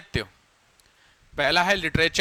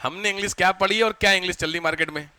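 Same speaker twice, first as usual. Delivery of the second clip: mock exasperation. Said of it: "ऐसी दिल पे चोट लगेगी कि आपको शर्म आएगी".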